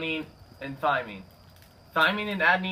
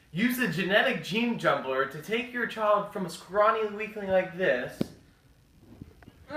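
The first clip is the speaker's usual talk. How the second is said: infomercial pitchman; 3 semitones higher than usual. Acted. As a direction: sell it like a TV ad.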